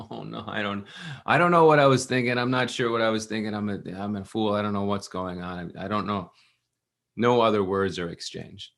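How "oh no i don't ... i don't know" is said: flustered apology tumbling out; flustered panic. Retold or imitated. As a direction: blurt it out in a fluster. Ghanshyam flustered, can't explain.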